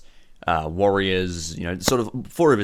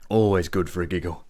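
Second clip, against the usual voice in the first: amused gang boss. Acted. Boss asks visitors to burn the farm, slowly relishing it. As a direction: relish the request after a good giggle.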